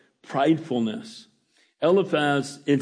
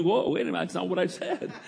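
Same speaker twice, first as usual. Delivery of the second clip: lightly acted, taken-aback objection; half-laughing mock alarm; mock protest; 3 semitones higher, 5 dB quieter, faster than usual. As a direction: back off in amused protest, softer toward the end. Acting reaction to misread text.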